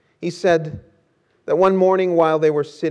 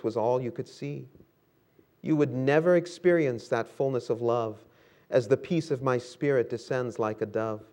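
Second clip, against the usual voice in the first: tender. Acted. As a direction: speak tenderly to a weary child. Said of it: "he tenderly said".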